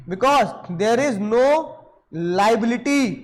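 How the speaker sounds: very slow, spaced words; teacher dictating to students; slow dictation. Shown as a demonstration. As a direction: dictate it slowly. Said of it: "dictating the rule".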